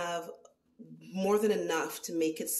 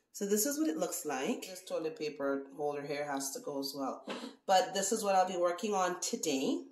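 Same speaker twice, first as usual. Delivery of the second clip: echoey bathroom sound; talking in a small echoing bathroom. Real, not acted. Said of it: "excuse the echo".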